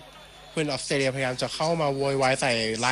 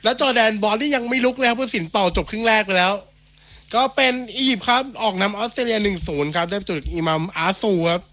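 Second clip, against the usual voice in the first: live play-by-play; 5 semitones higher, 5 dB louder than usual. Real, not acted. Commentator sums up first half live.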